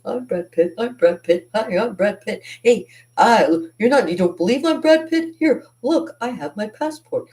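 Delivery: a hint of a desperate con man; mock scammer. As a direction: ham up the fake Brad Pitt's pleading. Mimicking the scammers' messages.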